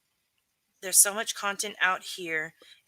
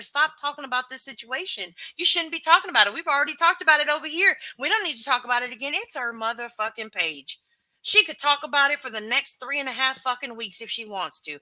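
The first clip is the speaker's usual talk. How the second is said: cursing version; 5 semitones higher than usual. Retold or imitated. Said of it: "my cursing version".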